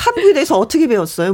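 quick, rushed question; tossed off quickly; fast question. Real, not acted. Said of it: "뭐라고?". (빠르게 묻는 질문)

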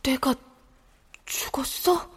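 breathless whisper of disbelief; child whispering on learning they are dead; stunned whisper. Acted. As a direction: barely breathe the question.

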